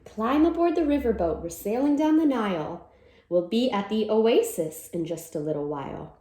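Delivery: lively storybook read-aloud; reading to children. Acted. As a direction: read it like a cheerful picture-book chant. Reads picture book aloud.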